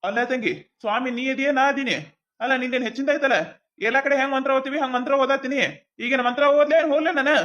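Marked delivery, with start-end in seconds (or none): 3.9-7.4 annoyed priest snapping at the family; irritated outburst. Acted. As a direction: fire it back in annoyance. Priest snaps back at bride's side.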